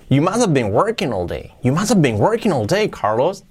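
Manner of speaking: acted admiring exclamation, swooping melody; with intonation. Teacher acts praising Carlos, lively intonation. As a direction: play impressed, sweeping up on "working". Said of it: "Lo hacemos con atenuación".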